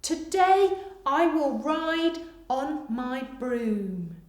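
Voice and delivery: very slow repeat, stress on today; slow dictation repeat. Shown as a demonstration. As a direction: read it again slowly. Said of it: "Pause here whilst you finish".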